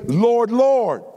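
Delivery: "Lord, Lord" pitched high, both words hit hard; emphatic repetition. Acted. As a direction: call out "Lord, Lord" with emphasis on each word. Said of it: "the way you say things for emphasis".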